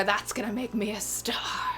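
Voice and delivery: whispered aside, half to herself; a smug little whisper after the pun; joking whisper. Real, not acted. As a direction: breathe it out as a playful aside.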